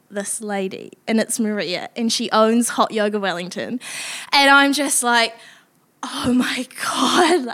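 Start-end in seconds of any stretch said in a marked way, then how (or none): 6.0-7.5 breathless, near-tearful whisper of relief; choked whispered relief. Retold or imitated. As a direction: whisper it like you're about to cry with relief. Relief after being locked out.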